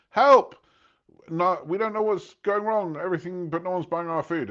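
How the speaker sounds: a shrill, loud mock scream of Help, then a high, frantic plea; hammed-up owners screaming for rescue; panicked cry for help.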